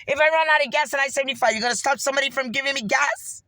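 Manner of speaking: heated, outraged protest; fed-up angry rant. Real, not acted. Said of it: "I'm sick of this shit".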